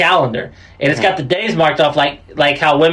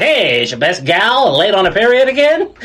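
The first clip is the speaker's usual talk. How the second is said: 1950s radio announcer; 3 semitones higher than usual. Acted. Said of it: "That's not a bad accent".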